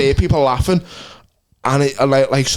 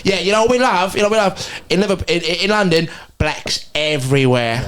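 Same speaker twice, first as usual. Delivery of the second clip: mock Cockney; 4 semitones higher than usual. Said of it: "these two Cockney women".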